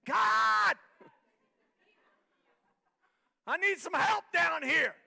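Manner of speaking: huge high shout to God; full-force loud cry for help; yelled prayer. Shown as a demonstration. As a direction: yell it up to heaven for help. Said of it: "but I'm gonna yell".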